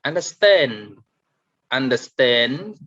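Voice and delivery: "understand" with STAND stressed and drawn out; stress on last syllable. Shown as a demonstration. Teacher reading out the last column, final-syllable stress on "understand". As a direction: lean long on STAND in "understand". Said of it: "stress at the end".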